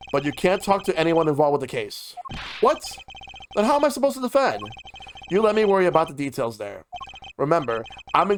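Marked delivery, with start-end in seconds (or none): 2.6-4.6 alarmed protest. Acted. Protesting trial rules.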